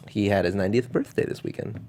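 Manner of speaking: soft whispered aside. Acted. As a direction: whisper it like a secret.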